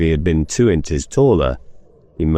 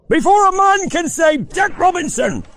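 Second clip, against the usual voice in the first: jovial Fezziwig. Acted. Fezziwig urges apprentices.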